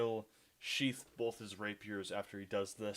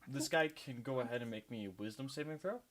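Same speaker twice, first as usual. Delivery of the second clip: leprechaun voice; 3 dB quieter than usual. Acted. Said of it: "I am still loving the leprechaun voice".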